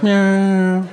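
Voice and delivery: high, drawn-out "nyaaa" noise; odd imitated whine. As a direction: answer with a long, held, high mock whine. Senator's odd noise in retelling.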